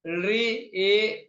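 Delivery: री, ए said very slowly; slow listing of vowels; slow vowel demo. Shown as a demonstration. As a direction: draw out री and ए. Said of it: "ठीक है".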